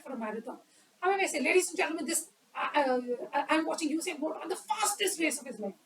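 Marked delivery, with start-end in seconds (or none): 1.4-5.7 energetic commentary. Shown as a demonstration. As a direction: call the race with energy. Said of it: "More appropriate".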